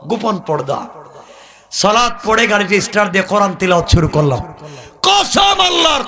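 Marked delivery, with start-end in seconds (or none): 5.0-6.0 high, drawn-out preacher's cry; full-force sermon exclamation; impassioned oath. Real, not acted. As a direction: swear it slowly in a high, ringing pulpit shout.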